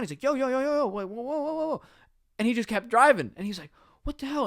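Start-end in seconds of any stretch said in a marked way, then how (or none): 0.2-1.8 high, urgent flag-down call; high-pitched retold hollering after a van; imitated calling out. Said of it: "he was trying to wave him down". 4.0-4.5 high-pitched baffled exclamation; much higher, indignant mock outburst; retold disbelief. Officer watches van keep driving.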